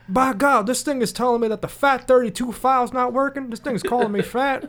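mild J R impression. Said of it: "J R".

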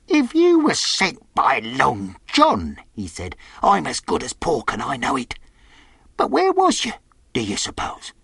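high, uneasy sailor voice; suspicious castaway. Acted. Castaway wonders if Long John sent Jim, uneasy and suspicious. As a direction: challenge the boy in a high character voice.

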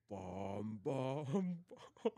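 tentative sung cartoon impression; Patrick. Friends must guess the impression, drawn-out sung syllables. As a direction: hold each syllable like a warm-up note. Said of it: "I was doing Patrick".

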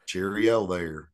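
a slow, lightly done British "Cheerio there"; half-hearted British accent, drawn out slow; mock British accent. Jokingly tries a British accent for his friend, slow and light. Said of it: "British accent sound like".

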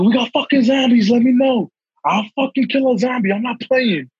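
high, hyped zombie alarm; mock panic. Telling his mom zombies are here, high mock panic. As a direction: ham up panicked bravado about zombies.

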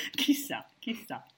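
mock mysterious whisper. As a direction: whisper it like a secret.

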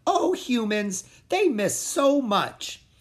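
high, slow, amused creature; small creature voice. A narrator's reading. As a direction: tut at the silly humans, high and slow. Pip voiced, amused at humans.

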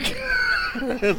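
high mock-crying squeal; hammed-up little-boy sobs; imitated child's sobbing. Spanked boy before his mom, mock sobbing.

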